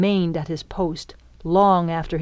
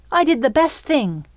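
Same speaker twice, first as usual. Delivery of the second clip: mildly flustered, pitched up self-defense; sputtering; 8 semitones higher, 3 dB louder than usual. A narrator's reading. Belle to the Peter in her mind, sputtering. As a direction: sputter it out, higher than usual. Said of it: "she sputtered".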